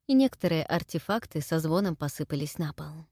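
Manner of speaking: usual speaking voice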